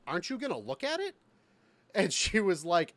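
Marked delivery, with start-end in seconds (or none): 0.1-1.2 incredulous retold question. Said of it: "and I go".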